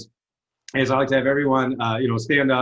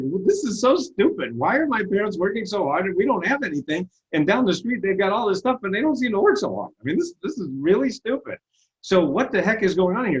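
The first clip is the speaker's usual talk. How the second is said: put-on higher, indignant young self venting; frustrated teen rant; 6 semitones higher than usual. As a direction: rant like a fed-up kid who finds it all unfair. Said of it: "I was so angry".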